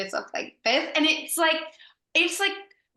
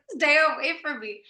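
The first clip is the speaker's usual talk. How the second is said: higher-pitched mock fright; a touch of panic, pitched up; retold scared reaction; 5 semitones higher than usual. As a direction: act out frightened recoil. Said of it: "I was so scared".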